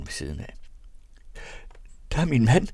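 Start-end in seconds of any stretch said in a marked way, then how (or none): 2.1-2.7 joyful cry of recognition; exclaiming with joy; jubilant. A narrator's reading. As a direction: burst out happily, higher and louder. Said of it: "udbrød hun jublende".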